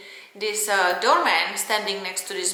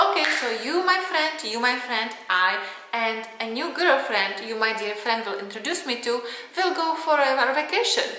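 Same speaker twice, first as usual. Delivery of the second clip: mocking the ex; 2 semitones higher than usual. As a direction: mimic the pompous ex sneeringly. Ex proposing a new girlfriend.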